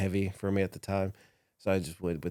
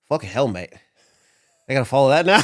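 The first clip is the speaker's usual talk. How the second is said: louder, rising mock complaint; mock British grumble; 5 semitones higher, 9 dB louder than usual. Wrestler Jack Gallagher dreading his next match, mock complaint. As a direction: play the rival groaning about following you. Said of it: "and he goes".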